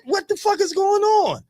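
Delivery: very high, slow, drawn-out outrage; a father stunned on the rainbow, high and slow; stunned disbelief. Retold or imitated. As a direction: stretch it out in shock. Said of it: "I said".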